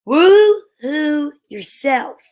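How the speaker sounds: slow hooting owl call; high clear owl voice. Acted. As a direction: hoot it out slowly like an owl. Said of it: "said a high, clear voice".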